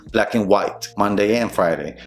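"and" reduced to "n", no D; connected words. Shown as a demonstration. Teacher showing the connection, reduced pronunciation. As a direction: link each pair through a short "and". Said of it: "cuando hagas la conexión".

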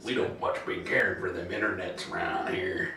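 dumb country bumpkin voice; hillbilly accent. Pretend. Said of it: "talking like a hillbilly".

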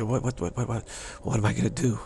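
mock flustered stammer. Teacher voicing the group's confusion when waking up, mock flustered. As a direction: play at not knowing what to do. Acted bewildered inner reaction.

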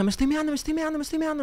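high, hurried squeal of needing the toilet; urgent squeal. Retold or imitated. To a friend at the party, desperate high-pitched squeal. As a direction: squeak it out, bursting to pee. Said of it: "le dije".

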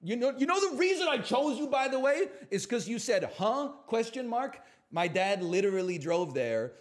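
squeaky teasing rant; high mock voice. Streamer mocking a viewer in a high squeaky voice.

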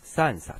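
Japanese "三冊" read san-satsu; "三冊" as san-satsu, no z sound; unvoiced S, sansatsu. Shown as a demonstration. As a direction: keep the s unvoiced in "三冊". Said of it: "它就不产生浊音变".

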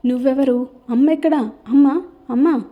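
shouting. Acted. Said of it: "అని మళ్ళీ అరుస్తోంది సరళ".

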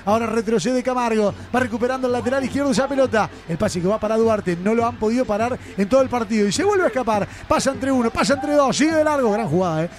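play-by-play. Real, not acted. Live play-by-play.

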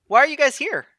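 high, bright-eyed newborn blob; high innocent ooze creature voice; high goofy blob voice. Acted. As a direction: chirp it like a friendly new creature. Glob asks.

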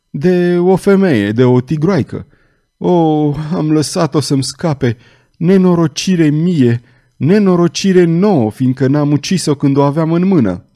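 put-on a pained old cardinal's wail; anguished lament. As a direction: grieve aloud over the lost chance.

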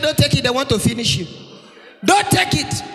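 acted fatherly alarm; father's shouted warning. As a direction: call out a frantic warning to your child.

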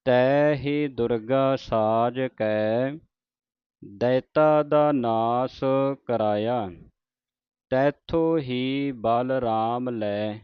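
drawn-out devotional reading, line by line; slow scripture recitation. Shown as a demonstration. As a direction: recite it slowly like Gurbani santhiya. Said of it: "ਲੈ ਤੇ ਵਿਸਰਾਮ ਹੈ". (ਹੌਲੀ ਹੌਲੀ ਪਾਠ ਦਾ ਉਚਾਰਨ)

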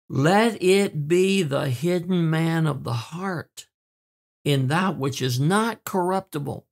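slow, measured Bible reading; scripture reading. Acted. Preacher quoting Peter to the wives, slow scripture reading. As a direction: read the verse out deliberately.

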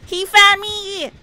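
panicked shout. Real, not acted. Being chased, panicked.

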